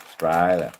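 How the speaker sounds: Australia said loudly as "Strayla"; punchy Aussie "Strayla" for Australia; broad slang pronunciation. Shown as a demonstration. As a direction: clip the opening off Australia, "Strayla". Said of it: "And it's spelled".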